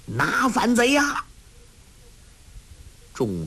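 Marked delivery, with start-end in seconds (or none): 0.0-1.2 high, ringing order to charge; rallying shout. A narrator's reading. Officer urging soldiers to seize the rebels, rallying shout. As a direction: rouse the troops. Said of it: "叫道".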